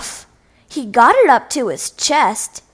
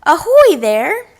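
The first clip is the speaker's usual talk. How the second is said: louder pirate hail from a lookout; shout; 4 semitones higher, 5 dB louder than usual. A narrator's reading. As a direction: call out like a pirate captain. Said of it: "and shouted".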